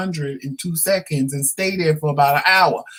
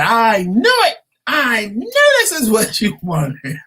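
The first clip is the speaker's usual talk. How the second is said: higher, louder retold accusation; mock accusing husband; 6 semitones higher, 4 dB louder than usual. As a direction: throw the husband's line back, raised.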